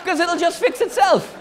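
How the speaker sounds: sing-song self-assurance; mock confident. Comedian mocking his own reasoning, high mock-confident sing-song. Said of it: "apparently I'm the fucking Wolverine now".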